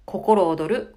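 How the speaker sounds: 「心躍る」 held on one pitch, loud; level tone. Shown as a demonstration. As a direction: keep 「心躍る」 flat and even. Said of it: "ここちょっと一定ですね". (「心躍る」を一定の音程で言う)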